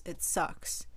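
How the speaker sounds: it sucks breathed out in a whisper. Real, not acted. Venting to camera, it sucks whispered away. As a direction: let it sucks fade to a whisper.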